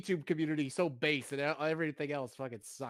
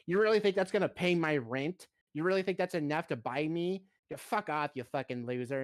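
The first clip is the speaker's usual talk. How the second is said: lightly acted contempt, pitched up then dropping; mock scornful streamer; 4 semitones higher than usual. Imitating a streamer rejecting a big donation, mock scorn. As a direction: imitate an ungrateful streamer's sneer. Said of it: "they show the ethot who".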